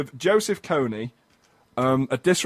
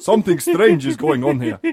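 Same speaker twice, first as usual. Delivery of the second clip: Kony voice; 8 semitones higher, 5 dB louder than usual. Acted. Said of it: "can I stop doing the Kony voice".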